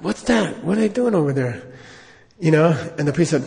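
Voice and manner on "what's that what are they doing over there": higher, puzzled question; a hint of a nosy visitor; curious Lama. Lama grabbing the priest about the little room, curious. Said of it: "he's like".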